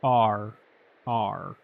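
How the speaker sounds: R tapped with the front of the tongue. Shown as a demonstration. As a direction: say "R" with the tongue tip forward. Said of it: "an R is pronounced with the front of the tongue".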